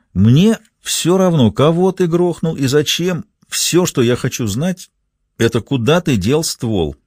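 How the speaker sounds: slow, cold and deliberate; slow menacing threat. Acted. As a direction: spell it out like a final warning. Ray threatening the pinned man.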